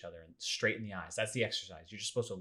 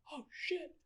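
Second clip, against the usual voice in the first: mock panic; slower than usual. Brian panicking.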